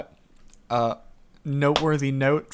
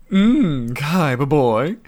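Pegasus voice. Acted. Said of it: "can you read it in your best Pegasus voice".

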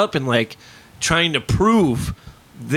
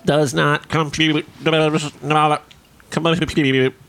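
robot voice; much slower than usual. Pretend. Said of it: "that's my computer".

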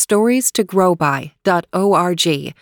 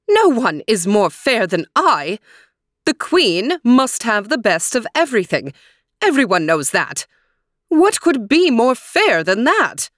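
angry queen; 4 semitones higher than usual. Acted. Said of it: "yelled the queen".

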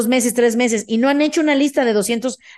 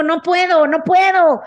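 mock despair; 5 semitones higher, 3 dB louder, slower than usual.

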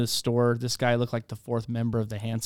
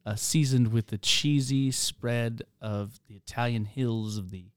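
fancy menu voice; slower than usual. Pretend. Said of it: "if they're like".

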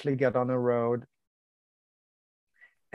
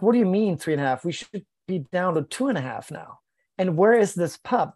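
fast, rattled, slightly raised questions; alarmed disbelief; 3 semitones higher than usual. Retold or imitated. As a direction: retell the panic of bad news. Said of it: "he could hear in my voice that I was not happy".

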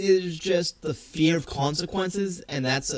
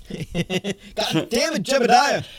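higher, drawn-out cursing that builds to a loud shout; mock angry yell; 6 semitones higher, 5 dB louder, much slower than usual. Podcaster plays an Amish man yelling after a companion, mock angry shout. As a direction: holler it in pretend exasperation.

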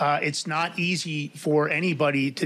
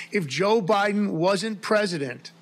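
laughing; 5 semitones higher than usual. Real, not acted. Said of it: "I can't keep a straight face".

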